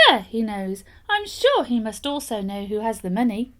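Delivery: the nobleman amazed, calling out his admiration; exclaimed. Acted. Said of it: "he exclaimed".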